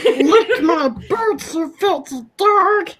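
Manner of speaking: a mock dominatrix Gollum, cracking up. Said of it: "now Gollum's a dominatrix".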